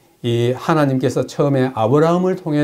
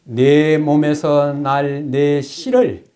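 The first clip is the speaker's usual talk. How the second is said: scripture reading; much slower than usual. Acted.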